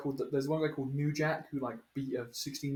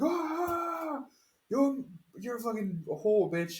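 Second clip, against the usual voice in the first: higher, louder, slower hammed-up heel promo; mock wrestling villain; 9 semitones higher, 4 dB louder, much slower than usual. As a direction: ham up a sleazy wrestling boss. Retelling wrestling boss insulting woman.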